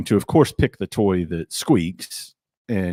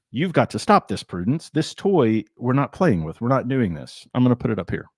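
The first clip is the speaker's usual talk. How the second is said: higher-pitched talking-to for a dog; firm pet scolding; 4 semitones higher than usual. Real, not acted. Owner to dog playing with squeaky toy, firm scolding.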